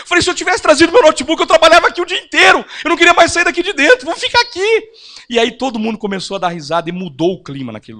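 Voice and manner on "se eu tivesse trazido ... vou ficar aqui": loud, bright, cheeky question; matching her loud tone. Retold or imitated. Pastor answering the complaining lady, loud and teasing. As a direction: answer her at the same volume, playfully. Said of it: "no mesmo tom de voz dela".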